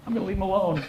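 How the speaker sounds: high-pitched, cowed echo; meek compliance. Acted. Cowed attacker obeying the bigger bodybuilder, meek high echo. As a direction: repeat the order back in a small high voice. Grabber echoes meekly.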